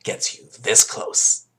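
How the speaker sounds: high, slow promo announcer read. Pretend. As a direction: sell it like a TV promo tag. Mock TV promo tagline.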